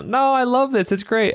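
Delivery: bright, eager reassurance; excited. Retold or imitated. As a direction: say it like you truly love the job. Retold reply to a worried customer.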